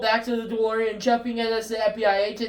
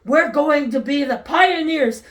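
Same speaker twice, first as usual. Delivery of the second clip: serious and animated; 4 dB louder than usual. Acted. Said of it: "seriously, animated".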